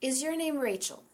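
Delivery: "Rachel" falling, flat and final; wrong falling tone. Shown as a demonstration. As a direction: drop "Rachel" down like a statement. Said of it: "if somebody says to me".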